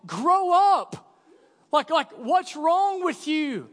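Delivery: high, loud exasperated shout; mock yell at son. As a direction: yell it like a fed-up dad. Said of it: "I literally just wanna just yell at my son".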